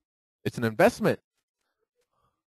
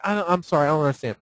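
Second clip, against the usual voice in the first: acting stupid; faster than usual. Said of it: "And I always act stupid".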